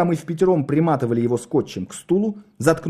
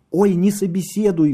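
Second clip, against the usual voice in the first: pleading; 7 semitones higher than usual. A narrator's reading. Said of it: "взмолилась Надя".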